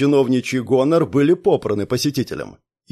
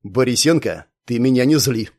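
weighty warning. Acted. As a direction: lean in and lay each word down heavily. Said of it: "веско проговорил Гуров".

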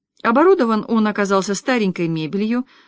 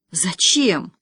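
dull. A narrator's reading. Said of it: "тупо спросила девица".

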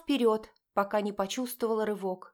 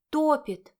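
топит cried higher and louder; emphatic outburst; 6 semitones higher, 6 dB louder than usual. A narrator's reading. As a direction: hurl топит out in despair. Repeated with outburst.

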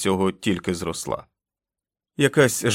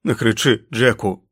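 groaning plea; 5 dB louder than usual. Acted. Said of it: "застогнав він".

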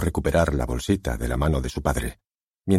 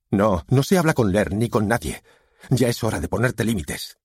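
firm refusal, pitched up; emphatic father, raised pitch; stern father; 6 semitones higher than usual. A narrator's reading. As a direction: shut her down with heated authority.

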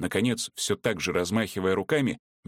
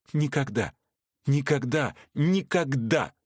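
each Никогда! firmer and higher, up to five semitones; growing firmer; 5 semitones higher than usual. Acted. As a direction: Veronika refusing Vorski, Никогда! firmer each time. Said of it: "всё твёрже и твёрже повторила она".

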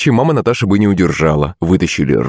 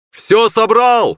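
shouted call; 14 semitones higher, much slower than usual. A narrator's reading. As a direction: holler up from the water that it's done. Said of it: "крикнул он".

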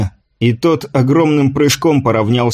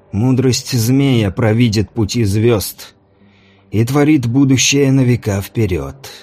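solemn priest-mage. Acted. Mage's slow sermon. (медленно и торжественно, как жрец)

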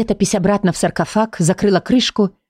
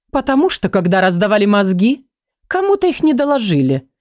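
snorting, mocking. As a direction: scoff at their lack of brains. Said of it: "хмыкнула летопись". (насмешливо фыркая)

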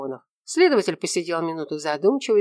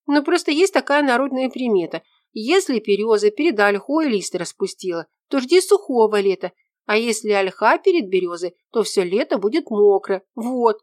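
put-on higher, louder girl's voice, earnest; young woman explaining; 6 semitones higher, 5 dB louder than usual. A narrator's reading. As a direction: lecture him like it's obvious. Ella explains folk omen.

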